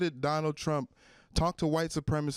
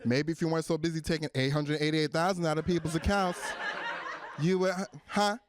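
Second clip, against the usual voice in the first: put-on bitter ex-girlfriend. Jilted ex blaming the bank for its troubles, bitter. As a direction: needle them with an old grievance. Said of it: "like a bitter ex-girlfriend".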